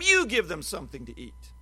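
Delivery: "You" pushed out as the key word, the rest plain; stress on you. Shown as a demonstration. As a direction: lean on "You" before giving them something to eat. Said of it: "put an extra emphasis on that word".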